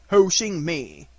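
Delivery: slow, indignant echo; surprised. A narrator's reading. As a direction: stretch it out in affronted surprise. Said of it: "said Eeyore in surprise".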